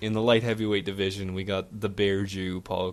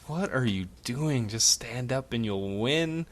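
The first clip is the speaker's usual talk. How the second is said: mild mock scream, pitched up; retold screaming; 4 semitones higher than usual. Bettor pleading with the fighter on TV, half-hearted yell. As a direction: re-enact exasperated pleading without really shouting. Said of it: "I was screaming the same shit".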